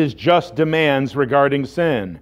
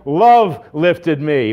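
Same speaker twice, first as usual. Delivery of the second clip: slow, drawn-out refrain; hymn refrain; slower than usual. Acted. Preacher repeats the song line after an amen, slow and drawn out. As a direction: stretch out the hymn words.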